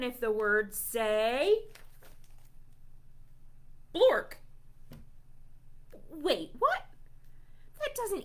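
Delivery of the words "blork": silly nonsense word. Acted. Reads nonsense word aloud.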